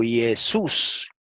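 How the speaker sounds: "Jesús" as ee-e-SUS, rising on sus; Greek diphthong reading. Shown as a demonstration. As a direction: sound out "Jesús" with y onset, single u. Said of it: "en este caso es un diptongo".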